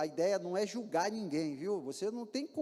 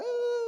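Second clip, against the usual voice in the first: mock wail; 14 semitones higher, 5 dB louder than usual. Mimics arrested man crying.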